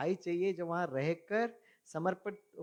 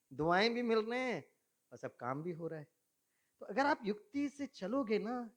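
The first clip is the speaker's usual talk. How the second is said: normal talking voice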